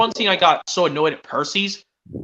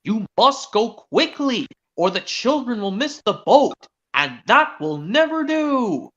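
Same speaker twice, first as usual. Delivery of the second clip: stern boss; 5 semitones higher, slower than usual. Retold or imitated. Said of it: "he boomed".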